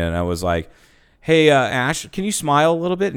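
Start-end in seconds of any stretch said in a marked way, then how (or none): 1.2-3.1 higher-pitched coaxing; mock-innocent request; teasing request. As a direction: ask lightly in a raised voice. Retold teasing request to colleague.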